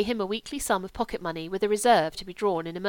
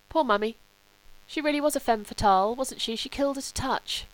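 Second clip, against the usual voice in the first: higher, wistful character voice; lightly voiced Sebastian; 5 semitones higher than usual. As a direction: lightly play a son musing on his mother. Voices Sebastian on his mother.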